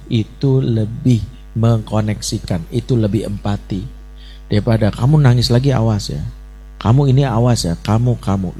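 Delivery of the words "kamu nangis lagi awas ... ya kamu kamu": threatening scold. Retold or imitated. Parent warning the crying child, mild mock threat. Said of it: "itu menyerang".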